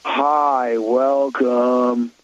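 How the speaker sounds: a listless drawled greeting, lightly voiced; Gen Z drawl imitation. Mocking the bored hotel desk clerk with a drawl. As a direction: drag out the welcome like a bored clerk. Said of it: "I'll give you the tone".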